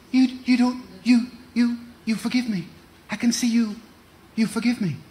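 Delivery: tearful wife. Retold or imitated. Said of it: "And she said".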